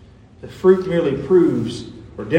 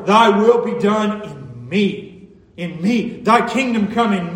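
personal prayer; 3 semitones higher than usual. Shown as a demonstration. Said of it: "It's as though we're praying".

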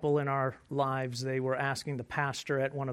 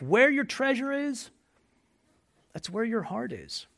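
emphatic proclamation; 7 semitones higher than usual. Real, not acted. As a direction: declare it to the whole room. Proclaiming the key verse.

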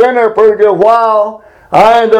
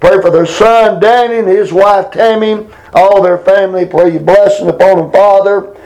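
fervent spoken prayer to God; earnest pleading prayer. Real, not acted. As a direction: pray aloud with earnest pleading. Leads a congregational prayer.

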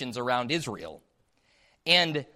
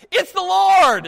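much higher and louder joyful cry; excited shout; 14 dB louder, slower than usual. Acted. Peter recognizing Jesus from the boat, joyful loud shout. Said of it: "Peter's like".

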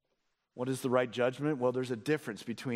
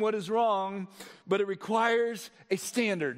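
animated, raised-pitch sermon delivery; emphatic preaching; 10 semitones higher, 3 dB louder than usual. Real, not acted. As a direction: drive the teaching home to the congregation. Preaches at full force.

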